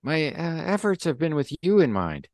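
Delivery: put-on high-pitched Russian-accented underling; anxious-to-report Russian voice, pitched well up. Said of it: "Can you set your Russian accent".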